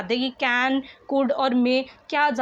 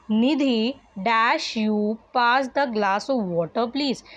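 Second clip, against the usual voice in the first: slow dictation reading; much slower than usual. Shown as a demonstration. Teacher reads exercise sentence.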